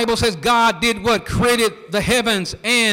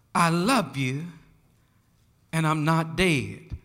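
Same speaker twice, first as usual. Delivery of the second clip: much softer and lower, almost breathed out, dropping away on "dead"; hushed refrain; 6 semitones lower, 7 dB quieter than usual. Acted. Preacher hushing the congregation, soft lowered refrain. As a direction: let it fall to a hush.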